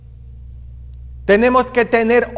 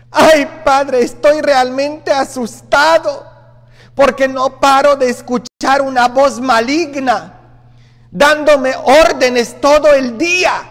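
higher, louder anxious plea; frightened parishioner; 6 semitones higher, 4 dB louder than usual. Retold or imitated. A frightened man telling the priest about an evil voice. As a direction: pour it out like a scared man hearing voices. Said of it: "un señor que me habló y me dice".

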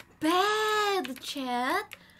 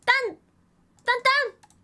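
loud, high excited cheer; excited shout; 7 semitones higher, 8 dB louder, slower than usual. Real, not acted. Excited cry.

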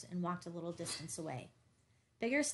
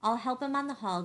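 angry shout; 4 semitones higher, 9 dB louder than usual. A narrator's reading. Heated quarrel, Gus shouting back.

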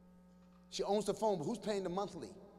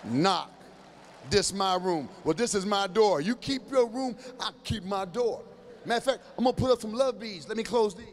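defiant parent; 2 semitones lower, 6 dB louder than usual. Retold or imitated. Parent mocking teen.

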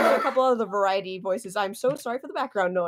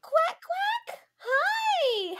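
quacking duck; much slower than usual. Acted. Greeting as Duck the VTuber.

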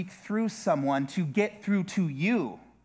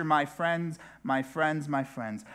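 fading refrain; slower than usual. Acted. Preacher pleading with his congregation, fading. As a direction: let the appeal fade away. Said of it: "preacher's fading repetition".

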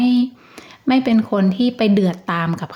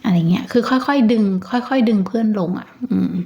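whispered aside. Real, not acted. Describing gently calming a friend.

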